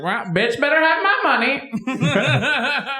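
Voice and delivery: slow pimp voice, laughing. Retold or imitated. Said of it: "it's just like".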